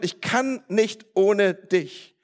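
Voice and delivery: KANN leaned on, drawn out slowly; slow emphatic plea. Shown as a demonstration. Preacher voicing the plea for blessing, slow and emphatic. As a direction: stretch "kann nicht ohne dich" slowly, word by word. Spells out what the plea means.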